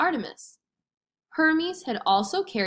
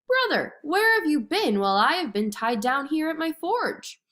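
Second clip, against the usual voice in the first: high, delighted hail to a brother; grinning greeting; 8 semitones higher, 3 dB louder than usual. A narrator's reading. Hephaestus welcomes his brother at the forge, delighted and high. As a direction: greet him through a big grin, voice raised high. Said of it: "broke out into a big grin".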